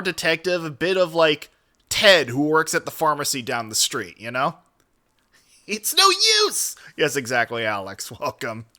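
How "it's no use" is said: high-pitched mock cry; theatrical despairing quote; hammed-up catchphrase. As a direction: throw out the line high and strained. Quotes a game character's catchphrase.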